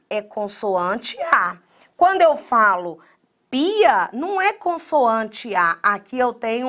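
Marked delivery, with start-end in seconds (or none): 0.1-1.6 slow emphasis. Shown as a demonstration. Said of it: "quando eu falo terminação A".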